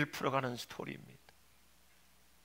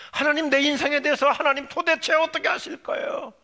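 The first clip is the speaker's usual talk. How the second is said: high, exasperated cry to God; loud demand; 7 semitones higher, 8 dB louder than usual. Acted. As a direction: shout the question, demanding an answer. Same question repeated as outcry. (큰 소리로 다그치듯 부르짖으며)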